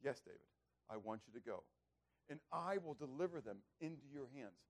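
gentle, unhurried reassurance; mild, tender assurance; God. Acted. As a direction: answer softly and patiently. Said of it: "How gentle".

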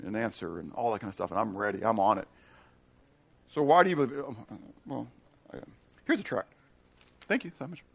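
ordinary delivery

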